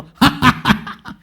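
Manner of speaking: a loud, high demonstration laugh; big hearty demo laugh. Shown as a demonstration. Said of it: "큰 소리로".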